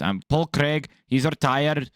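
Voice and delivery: half-hearted attempt at a Scottish accent; badly faked Scottish, giving up on it. Shown as a demonstration. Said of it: "I can't really do a Scottish accent".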